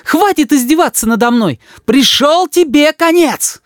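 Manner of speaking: mother bursts out at her son in rage; furious yelling. A narrator's reading. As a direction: shout out the final threat. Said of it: "закричала мама".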